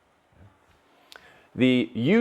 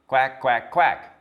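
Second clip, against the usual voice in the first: confused horse; slower than usual. Acted. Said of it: "said the confused horse".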